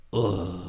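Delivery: low, quiet "ugh"; hushed groan of reaction; retold groan. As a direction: let out a soft, low groan. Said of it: "and they go".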